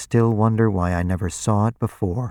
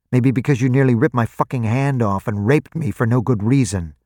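loud, raging, spitting curses at him; furious outburst; 4 semitones higher, 3 dB louder than usual. Acted. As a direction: shout it out, reckless and bitter. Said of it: "suddenly I didn't care anymore".

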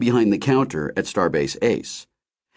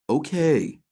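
gentle, higher-pitched reassurance; soothing; 7 semitones higher than usual. A narrator's reading. Ray settles his enraged friend, soothing. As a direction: soothe someone who has been shouting. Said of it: "in a soothing voice".

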